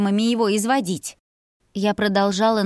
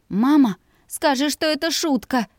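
higher pleading daughter; 7 semitones higher than usual. Acted. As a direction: beg your mother to take it back. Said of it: "взмолилась я".

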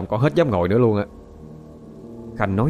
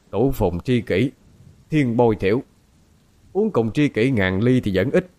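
slow chanted verse recital; poem recitation. A narrator's reading. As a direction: recite it slowly like old poetry. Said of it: "chậm chậm nói như ngâm thơ".

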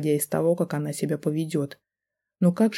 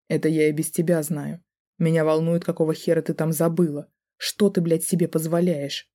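ordinary delivery

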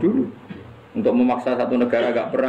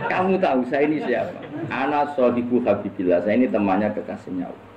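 mild snap; 3 semitones higher than usual. Acted. Umar lightly snapping back at Munkar Nakir in the grave. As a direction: lightly bark the question at them. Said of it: "Wani gak nyentak Munkar Nakir".

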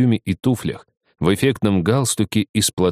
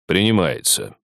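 deep velvety voice. Acted. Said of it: "прозвучал глубокий бархатный голос".

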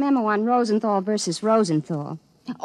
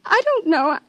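tearful; 7 semitones higher than usual. Acted. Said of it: "She's crying with happiness".

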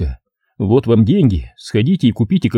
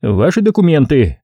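raised-pitch official demand, lightly voiced; a touch of officious command; demanding policeman; 4 semitones higher than usual. Policeman demands suspect's papers, mildly officious. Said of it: "потребовал мент".

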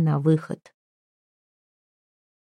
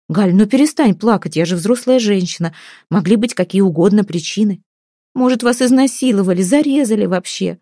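sobbing; 2 semitones higher than usual. Acted. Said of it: "рыдала Галя".

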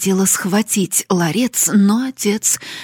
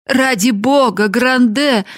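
higher, louder desperate appeal; mother's cry; 6 semitones higher, 5 dB louder than usual. A narrator's reading. Mother begging her husband to relent, crying out. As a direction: cry out, begging him to stop. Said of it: "закричала мать".

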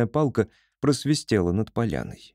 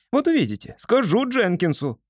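defiant taunt; 10 semitones higher than usual. A narrator's reading. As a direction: taunt them stubbornly. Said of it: "не унималась Поня". (упрямая угроза)

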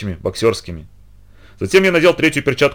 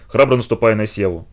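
usual speaking voice

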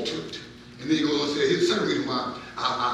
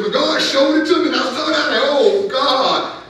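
much higher and louder, anguished outcry; his wailing; 11 semitones higher, 9 dB louder than usual. Acted. Preacher voicing the prophet's reaction to God's vision, wailing. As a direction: wail it as the stricken prophet. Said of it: "I'm wailing like this".

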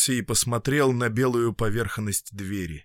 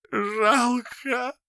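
high slow weepy; tearful; 13 semitones higher than usual. A narrator's reading. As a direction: say it through tears. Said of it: "недоступный страху".

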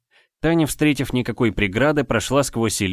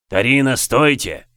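slow loud call to stop; 3 semitones higher, 5 dB louder than usual. Acted. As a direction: call her back. Captain calls after her.

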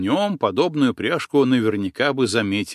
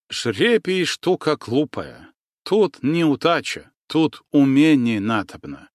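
lecturing; 4 semitones higher, 3 dB louder, slower than usual. Acted. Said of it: "назидательно ответил ему Ганс Штраубе".

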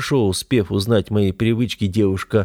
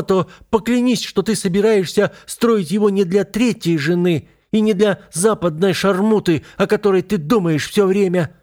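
heated pleading; 12 semitones higher, 3 dB louder than usual. A narrator's reading. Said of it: "в сердцах восклицает она".

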